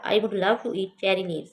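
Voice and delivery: slow textbook dialogue reading; slow careful reading. Shown as a demonstration. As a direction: read the ladybird's question aloud for the class. Reads ladybird's reply.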